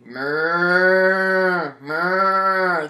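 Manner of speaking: low loud ox moo. Acted. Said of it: "The ox was always lowing".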